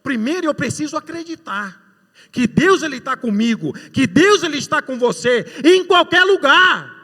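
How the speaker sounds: high, loud preaching with slowed peaks; fervent preaching. Acted. Preacher testifying to the congregation, full force.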